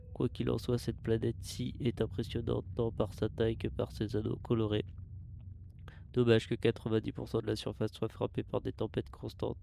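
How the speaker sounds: steady mechanical log voice; robot voice. Acted. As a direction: read it like a ship's computer. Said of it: "je fais une voix de robot".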